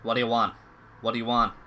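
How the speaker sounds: gruff and suspicious; defensive snapping. Acted. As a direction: bark the question at them twice. NPC snaps at investigators.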